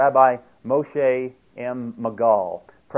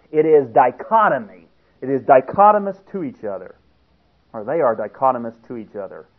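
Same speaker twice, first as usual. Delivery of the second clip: loud, hammering pulpit delivery; fiery preaching; 3 semitones higher, 7 dB louder than usual. Acted. Preacher denouncing Judeo-Christianity to his congregation, loud and emphatic. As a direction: drive each word home like a sermon climax.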